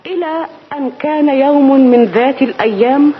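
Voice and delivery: rhythmic rhymed storyteller narration; storytelling. Acted. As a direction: tell it like an old tale. Shahrazad starts storytelling.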